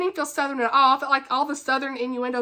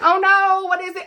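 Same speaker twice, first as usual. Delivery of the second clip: concerned friend; 6 semitones higher, 6 dB louder than usual. Retold or imitated. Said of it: "she was like".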